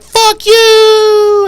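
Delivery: high, loud shouted curse; yelled insult. Retold or imitated. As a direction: yell it back while running off. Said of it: "he's like".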